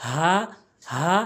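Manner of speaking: airy "হা" from the bottom of the throat; হা demonstration. Shown as a demonstration. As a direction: breathe out a long "হা". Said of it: "শুরু থেকে". ("হা", হলকের শুরু থেকে)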